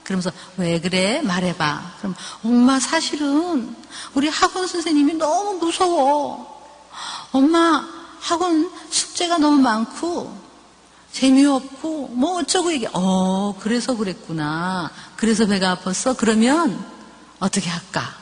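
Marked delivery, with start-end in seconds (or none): 0.6-1.9 gentle coaxing mother. Shown as a demonstration. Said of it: "한번 이렇게 하는 거야". 2.4-12.7 put-on higher, slow little-girl voice; a shy daughter owning up; lightly voiced whiny child, higher and slower; child confiding. 12.9-18.1 gentle coaxing mother. Shown as a demonstration. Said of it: "한번 이렇게 하는 거야".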